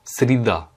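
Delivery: Srida stressed on the last syllable, sri-DA; corrected stress. Shown as a demonstration. Teacher fixing their own slip, Srida stressed on DA. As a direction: move the weight of Srida onto final DA. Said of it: "pardon, j'ai mal fait l'accentuation".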